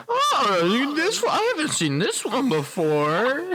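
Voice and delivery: a parent's shocked sing-song; mock parent. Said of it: "my parents being like".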